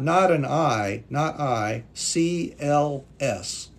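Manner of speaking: slow, deliberate correction of the letter; correcting a letter. Shown as a demonstration. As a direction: set them straight on the spelling. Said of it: "This is not".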